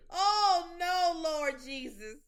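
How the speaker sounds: loud, slow scandalized cry; shocked outcry. Real, not acted. Reacting to crude song.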